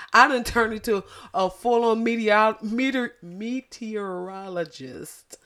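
stumbling on meteorologist, lisping; tripping over a word. Real, not acted. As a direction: drag out meteorologist, struggling. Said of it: "that word hurt".

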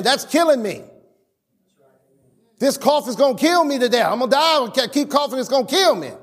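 imitating someone moaning about a cough; mock complainer. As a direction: ham up a dramatic cough victim. Mocking a dramatic complainer.

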